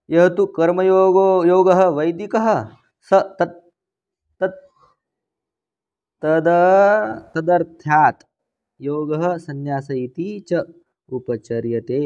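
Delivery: slow, measured scripture reading, easing down at the end; deliberate reading from the commentary; Sanskrit text recitation. Acted. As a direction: recite it word by word, lingering on endings. Reads Sanskrit commentary aloud.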